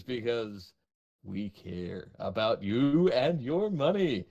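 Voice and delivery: lightly voiced creepy promo announcer. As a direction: sell the tiers like a creepy announcer. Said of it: "Was that creepy announcer en-, enough".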